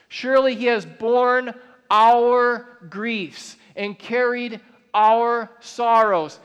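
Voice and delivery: slow, weighty reading of the verse with long pauses; solemn scripture reading. Acted. Preacher reads Isaiah to the church, slow and solemn. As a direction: lean into each phrase like a sacred text. Reread as proof.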